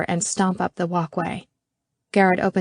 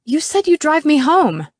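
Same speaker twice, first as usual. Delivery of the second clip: hiss; 9 semitones higher, 6 dB louder than usual. Acted. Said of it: "I hiss".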